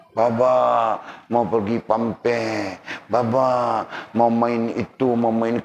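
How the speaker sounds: put-on slow, drawn-out childish begging; spoiled child. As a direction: stretch it out like a pampered kid nagging. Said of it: "anak-anak kau manja". (budak manja merengek perlahan-lahan)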